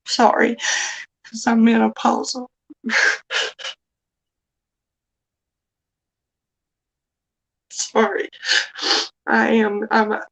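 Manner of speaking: fighting back tears, voice catching; trying to hold it together; emotional. Real, not acted. Woman apologizing to the chat for being sensitive, tearful and halting. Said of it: "I'll get myself together".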